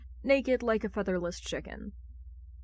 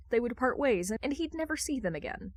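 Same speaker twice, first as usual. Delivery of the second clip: usual speaking voice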